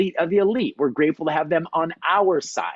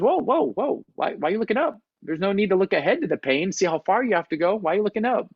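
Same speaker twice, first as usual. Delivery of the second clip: mock-alarmed whoas, higher, laid-back dude; hammed-up surfer dude; 6 semitones higher, much faster than usual. Instructor teases the Navy seal for looking down, mock-alarmed dude voice. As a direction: play the chill instructor hamming up alarm. Instructor scolds frozen climber.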